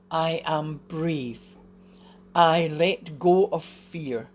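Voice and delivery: slow, hushed whisper, each word deliberate; whispered affirmation. Shown as a demonstration. Leading viewers in a morning affirmation, slow whisper. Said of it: "start this morning with that affirmation".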